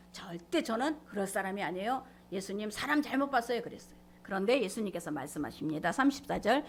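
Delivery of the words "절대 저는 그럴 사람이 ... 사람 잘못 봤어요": mild protest. Retold or imitated. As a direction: protest gently, in a near-usual voice. Peter's protest, first retold mildly.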